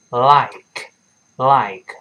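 slow "like", tongue sticking to the upper gum; "like" modelled slowly with a clear initial L; tongue-tip L. Shown as a demonstration. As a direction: draw out "like" from a forward L. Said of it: "跟上牙膛粘一下".

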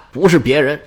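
ordinary delivery

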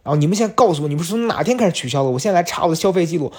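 imitating the cousin's angry lecture to staff; mock indignant rant. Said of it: "他一直在强调说".

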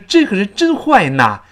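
"真坏呐" with an n in "na"; loud, high "这个人真坏呐" with misplaced n; awkward wrong ending. Shown as a demonstration. Teacher showing an awkward version, "坏呐" with n. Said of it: "就非常别扭".

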